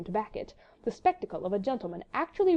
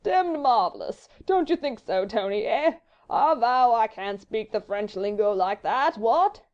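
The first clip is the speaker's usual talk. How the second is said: loud upper-class drawl, swooping up; imperturbable fop; 5 dB louder, slower than usual. A narrator's reading. Sir Percy appealing to Tony, unruffled foppish drawl. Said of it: "continued Sir Percy imperturbably".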